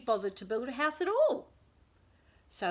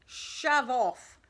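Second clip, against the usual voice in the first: rude shout; 3 semitones higher, 5 dB louder than usual. A narrator's reading. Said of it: "shouted the pig rudely".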